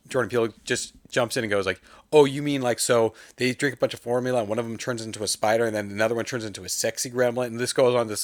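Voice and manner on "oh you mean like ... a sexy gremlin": animated pitch, loud start and rushing on; mock runaway rant, gathering speed; imitated rant. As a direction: launch into an excitable brainstorming rant. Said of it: "huge rant".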